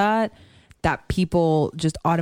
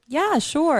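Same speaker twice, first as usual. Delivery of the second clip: imitating dad; 11 semitones higher than usual. Dad answering casually, retold.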